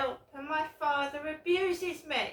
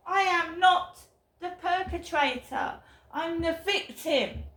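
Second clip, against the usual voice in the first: louder and higher, insisting hard; real angry outburst; 3 semitones higher, 5 dB louder than usual. Real, not acted. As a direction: set the record straight, forcefully. Angry rant about being accused.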